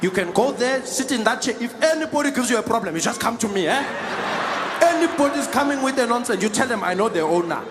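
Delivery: lightly voiced man throwing his weight around; cocky seat-stealer. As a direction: play a self-assured seat squatter. Acts out the man in the chair.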